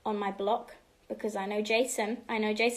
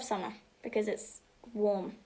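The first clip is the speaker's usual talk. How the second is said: whispered; 5 dB quieter than usual. Real, not acted. Whispered aside.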